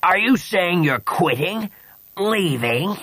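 high, slow, baffled questioning; befuddled. Acted. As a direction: question in total confusion. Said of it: "Kivik was completely befuddled".

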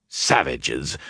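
muttered around a pipe stem; pipe in mouth. A narrator's reading. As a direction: mumble past a pipe in your teeth. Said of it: "Baran muttered around his pipe".

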